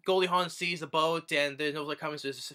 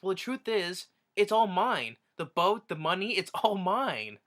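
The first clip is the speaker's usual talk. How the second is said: higher, a touch louder, pleased with herself; smug reveal; 6 semitones higher, 4 dB louder than usual. Retold or imitated. Heroine telling her lover the fortune is hers, smug and high. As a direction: savor the twist like a sly winner.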